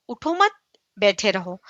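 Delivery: اٹھو مت together, a break, then بیٹھے رہو; pause after مت. Shown as a demonstration. Teacher gives the other meaning, pause after مت. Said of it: "اس میں کتنا فرق ہوتا ہے".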